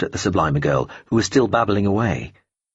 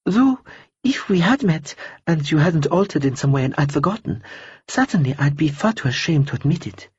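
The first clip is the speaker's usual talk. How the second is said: a cool, polite stranger brushing him off; lightly voiced woman; 7 semitones higher than usual. Woman character voice.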